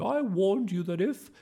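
high loud tirade cut short; rage, then stop mid-threat; storming, broken off. A narrator's reading. Miss Boot seeing Whiffer mid-rant, storming then breaking off. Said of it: "she broke off".

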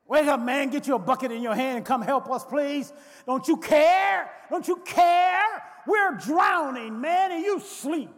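frantic pleading shout, rising on care; panicked disciples. Acted. Disciples shouting at sleeping Jesus in the storm, frantic and pleading. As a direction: shake him awake and beg him to help.

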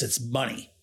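low, lightly imitated Southern farmer; Southern accent. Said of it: "he does talk in a Southern accent".

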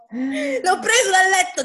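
slow, laughing through it; cracking up while repeating. Real, not acted.

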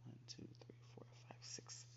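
whispered counting. Real, not acted. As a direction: count softly under your breath. Counting under breath.

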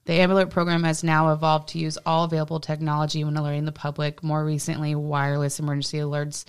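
even, informational script read; reading aloud. Real, not acted. Podcaster reading Amber Alert research to co-host, reading aloud. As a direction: read it out like a prepared report.

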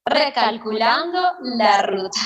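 lightly imitated GPS voice, slow; slow, measured mock navigation prompt; Quique Pavón. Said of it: "Se me hace escuchar en mi oído la voz de Quique Pavón".

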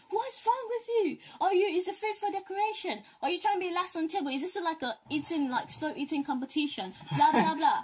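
mock scolding stepmom; imitating stepmom's scolding. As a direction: play the nagging stepmom at the table. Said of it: "She would yell at me on the table".

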